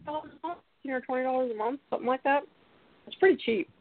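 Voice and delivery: bad phone connection, breaking up; cutting out. Real, not acted. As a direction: voice dropping in and out. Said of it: "it sounds like you're cutting out pretty bad".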